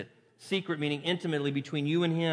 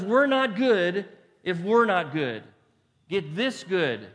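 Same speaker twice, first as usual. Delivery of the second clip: voicing God; 2 semitones higher, 5 dB louder, slower than usual. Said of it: "And God says".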